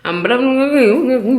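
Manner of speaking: mock Caymanian accent on nonsense syllables; playful gibberish in a Caymanian lilt; imitated Caymanian babble. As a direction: babble like a Caymanian man talking. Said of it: "that man accent".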